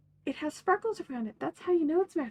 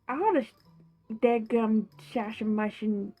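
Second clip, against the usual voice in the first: put-on grumbling old man; 4 semitones lower than usual. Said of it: "have I said that I hate this?".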